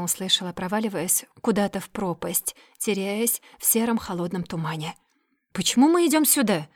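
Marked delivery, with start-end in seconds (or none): 5.5-6.7 higher, indignant demand; indignant question. A narrator's reading. Daira indignantly asking Magorov where they are going. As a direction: challenge him with indignation. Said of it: "с возмущением спросила Дайра".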